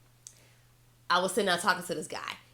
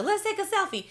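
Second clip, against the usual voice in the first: tag; 12 semitones higher than usual. Retold or imitated. Retells eager request for photo.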